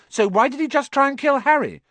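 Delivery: high, loud accusing cry; alarmed cry. Acted. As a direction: cry it out, desperate to convince. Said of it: "cried Hermione".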